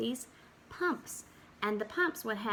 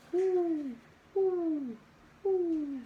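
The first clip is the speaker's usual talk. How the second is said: a lightly voiced owl hoot; 6 semitones higher, much slower than usual. Teacher reading bedtime farm page to kids, mild owl hoots. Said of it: "Owl calls out".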